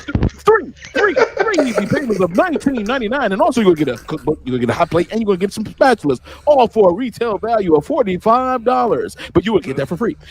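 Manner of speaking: fast, excited bargain pitch; infomercial pitch voice. Retold or imitated. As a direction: rattle it off like a TV salesman. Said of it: "Infomercials down to a T".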